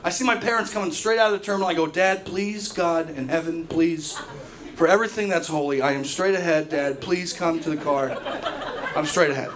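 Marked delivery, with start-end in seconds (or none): 1.9-9.5 desperate pleading. Retold or imitated. Pleading quietly with dad.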